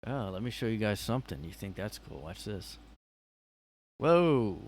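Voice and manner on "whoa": surprised. Real, not acted. Showing off the clone effect.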